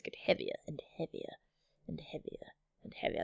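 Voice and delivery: fading into a sleepy whisper; drifting off. A narrator's reading. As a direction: let it sink away as if falling asleep. Narrator acts falling asleep.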